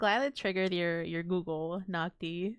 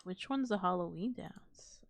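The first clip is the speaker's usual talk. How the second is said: whispering; 6 dB quieter than usual. Real, not acted. Unvoiced whisper in chat.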